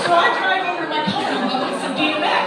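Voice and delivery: loud, laughing hype; loud excited shouting, laughing; hyped up. Retold or imitated. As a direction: pump yourself up on the drive.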